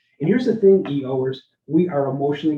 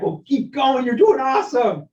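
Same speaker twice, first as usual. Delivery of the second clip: a hint of a high, peppy cheerleader; sarcastic pep talk to someone going the wrong way; mock cheerleader; 8 semitones higher, 4 dB louder than usual. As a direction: cheer him on with fake enthusiasm. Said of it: "pat me on the back".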